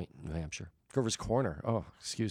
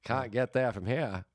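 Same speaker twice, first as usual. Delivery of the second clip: slow rural New England drawl, slightly higher; hick New England accent; 4 semitones higher, slower than usual. Acted. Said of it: "a hick vibe to it".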